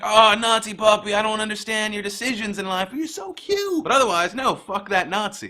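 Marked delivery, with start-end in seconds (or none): 0.0-3.8 cooing at a puppy. Pretend. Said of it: "You'd be like".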